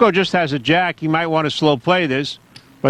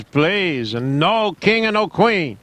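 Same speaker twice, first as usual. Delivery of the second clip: lightly put-on Italian accent on please; a hint of an Italian plea; slower than usual. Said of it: "You like my Italian accent?".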